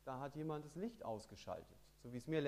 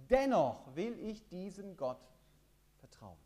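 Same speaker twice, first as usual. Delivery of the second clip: laut bekennen; 5 semitones higher, 8 dB louder than usual. Acted. Predigt, trotziges Bekenntnis ausgerufen.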